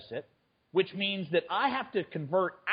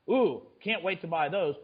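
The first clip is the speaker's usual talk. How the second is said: sarcastic. Real, not acted. Sarcasm about bonds.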